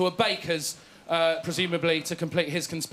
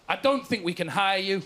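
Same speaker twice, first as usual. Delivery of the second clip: imitating Westwood. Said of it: "looked at me and said".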